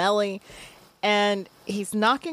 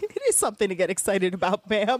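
excited. Retold or imitated. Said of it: "he's so excited".

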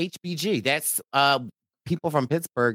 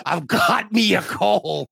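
sick pirate voice; 2 semitones higher, slower than usual. Pretend. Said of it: "You sound like a sick pirate".

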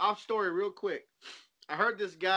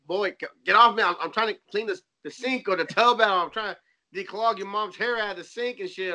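loud annoyed push-off; irritated dad; 4 dB louder than usual. Retold or imitated. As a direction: shoo the kid away while busy. Dad scolds crawling child.

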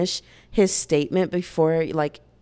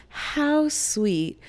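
touched; 8 semitones higher than usual. Retold or imitated. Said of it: "my thought was".

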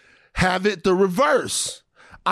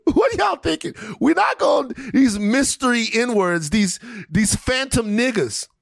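laughing rant; 4 semitones higher than usual. Real, not acted. Ranting, rising laugh.

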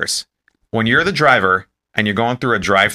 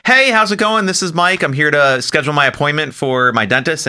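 put-on upbeat phone voice; 3 semitones higher than usual. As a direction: smile your way through the call. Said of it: "put on a smile before I talk".

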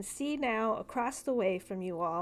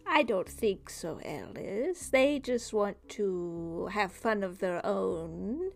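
slow, coaxing otherworldly voice; sinister dream figure; slower than usual. Acted. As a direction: purr it like a creepy stranger.

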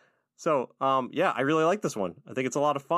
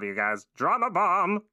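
slow, higher, put-on valley girl squeal; LSP drama bomb; 7 semitones higher, slower than usual. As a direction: drag it out, gossipy and thrilled. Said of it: "L S P catches on and says".

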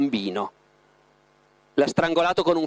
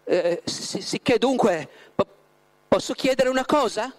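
halting, higher, tripping start; stumbling over words; 7 semitones higher than usual. A narrator's reading. Margherita nervously stammers out her question to Voland. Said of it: "incespicando nelle parole".

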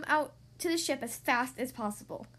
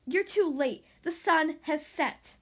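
evil grin; 2 semitones higher, 4 dB louder, slower than usual. Acted. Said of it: "Ursula said with an evil grin".

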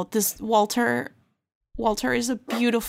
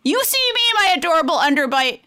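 jealous dog voice; 4 semitones higher than usual. Pretend. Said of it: "I'm just translating. You know, I speak fluent dog".

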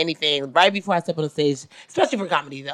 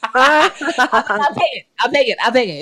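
excited gratitude; 7 semitones higher than usual. Retold or imitated. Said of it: "I was like".

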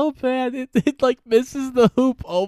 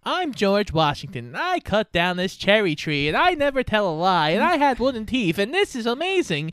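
sing-song school play; 3 semitones higher than usual. Shown as a demonstration. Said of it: "speak in this rhythm".

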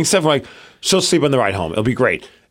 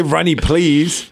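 imitating toddler; 2 semitones higher, much slower than usual. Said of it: "At least say".

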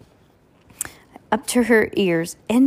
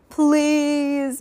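put-on pleading child, pitched up; begging; 6 semitones higher than usual. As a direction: beg for it. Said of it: "begged Heidi".

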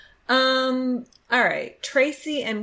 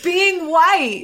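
laughing; 9 semitones higher, 9 dB louder than usual. Real, not acted. Laughing punchline.

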